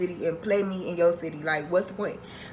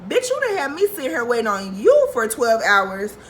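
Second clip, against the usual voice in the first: retold angry rant. Retold phone screaming match.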